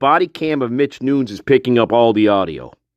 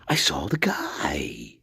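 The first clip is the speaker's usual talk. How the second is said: slow, lower, breathless whisper; mock whisper; 12 semitones lower, 11 dB quieter, slower than usual. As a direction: whisper it like a shaken witness. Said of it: "goes into her theatrics".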